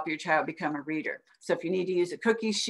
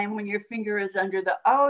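normal talking voice

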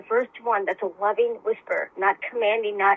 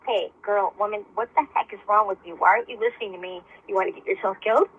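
commanding inner voice. Retold or imitated. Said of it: "then it was commanding".

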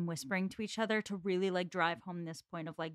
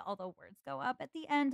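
put-on higher Valley Girl uptalk, lifting at the end; Valley Girl accent; 5 semitones higher than usual. Shown as a demonstration. Host demonstrating how she pictures Mrs Elton, Valley Girl accent. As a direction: lightly mimic a Valley Girl, pitch going up. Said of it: "real Valley Girl kind of accent".

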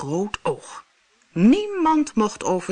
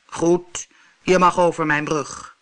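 grumbling monster; 4 dB louder than usual. Acted. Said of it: "bromde het monster".

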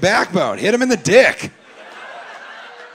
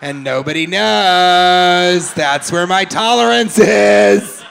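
lightly voiced tipsy woman; 2 semitones higher, 7 dB louder, slower than usual. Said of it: "she just has this vibe of".

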